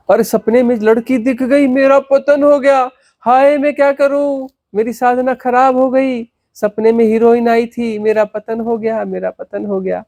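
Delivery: high, slow mock wail; panicky seeker. Guru mocking a seeker fretting over a dream, high mock lament.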